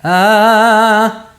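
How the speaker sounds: long, high, loud sung "ah"; loose-tongued "ah". Shown as a demonstration. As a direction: sustain an "ah" with the tongue hanging out. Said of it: "their tongue is just hanging out".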